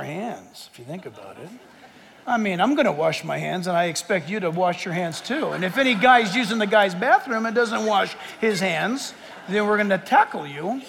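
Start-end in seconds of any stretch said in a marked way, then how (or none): 2.3-10.8 sarcastic. Acted. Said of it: "I'm being very sarcastic to make this point".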